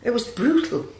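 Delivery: shouting down her friend's excuse; angry outburst. Acted. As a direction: throw his word back at him, furious.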